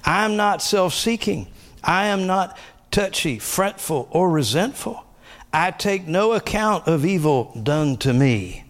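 high, slow declaring of scripture; spoken confession. Shown as a demonstration. Pastor reading personalized scripture to church, high declaring. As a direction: proclaim each line as your own creed. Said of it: "Let's keep going".

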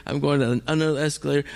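ordinary talk, nothing marked

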